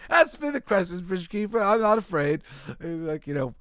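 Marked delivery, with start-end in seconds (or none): 0.1-2.4 higher voice, bluffing courage; much higher, puffed-up bravado; fake-brave knight. Cowardly knight bluffing to the bridge keeper, high and bold. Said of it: "the cowardly guy goes".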